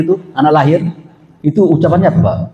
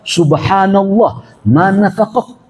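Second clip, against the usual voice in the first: startled Abu Bakar; 9 semitones higher than usual. Retold or imitated. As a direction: gasp out subhanallah in mock shock. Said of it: "Apa kata Abu Bakar?".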